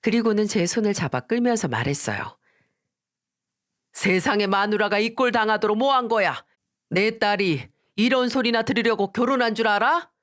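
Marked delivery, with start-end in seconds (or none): 3.9-10.1 father rebuking his son-in-law, higher; protective, angry dad; higher indignant father. Acted.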